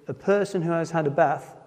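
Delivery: Notts accent, short a in bath; Nottingham accent. Real, not acted. Preacher reading scripture in his Notts accent. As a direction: read it in a broad Nottinghamshire accent. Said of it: "sorry for the Notts accent".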